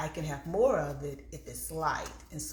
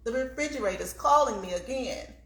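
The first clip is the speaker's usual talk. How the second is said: playful sing-song; 6 semitones higher than usual. Pretend. Fridge calling, playful sing-song.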